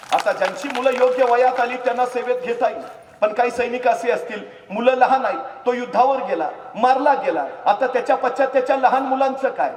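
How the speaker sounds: high, loud fervent preaching; loud, high impassioned preaching; full-force preaching. Acted. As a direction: preach it with fire.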